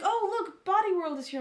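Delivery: high, loud mock delight; excited imitation. Mimicking her friend spotting Body World, high mock excitement.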